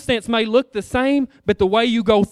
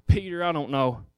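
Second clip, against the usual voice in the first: low, quiet, weary sigh of a voice; a hint of a worn-out teacher confiding; discouraged Jesus; 5 semitones lower, 5 dB quieter than usual. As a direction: let the words sag like he's given up. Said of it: "sitting up here and saying".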